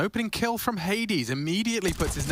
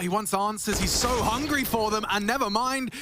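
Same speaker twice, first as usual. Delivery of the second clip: excited; 6 semitones higher than usual. Real, not acted. Caster hyped as player pushes.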